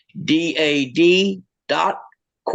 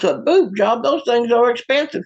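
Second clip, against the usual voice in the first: higher-pitched disbelief; incredulous husband; 6 semitones higher than usual. Acted. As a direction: balk at the request in mock shock. Acted husband balks at wife's request.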